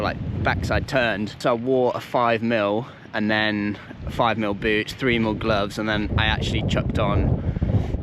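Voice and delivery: slow, stiff lips from the cold; numb lips. Real, not acted. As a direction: talk with numb frozen lips. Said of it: "I can't even talk 'cause my lips are so numb".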